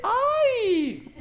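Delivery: high-pitched demonstrated "¡ay!"; hammed-up high yelp, held long; mock scream. Shown as a demonstration. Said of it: "no es un grito de". (grito fingido y agudo de ¡ay!)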